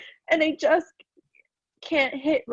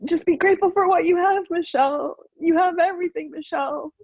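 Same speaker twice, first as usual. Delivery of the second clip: mocking others' voices; 5 semitones higher than usual.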